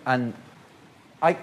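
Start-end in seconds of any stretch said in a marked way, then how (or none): 1.2-1.4 careful South African accent; attempted South African accent. Shown as a demonstration. Guest shows how he starts off, South African accent. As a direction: begin in a passable South African. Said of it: "I can start off all right".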